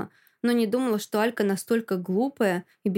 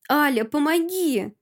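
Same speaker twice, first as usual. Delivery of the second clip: slow, high, louder panicked plea; frightened cry; 6 semitones higher, 4 dB louder than usual. Acted. Masha begging her friend while dragged out, frightened cry. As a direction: beg for rescue in terror. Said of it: "кричу перепуганно".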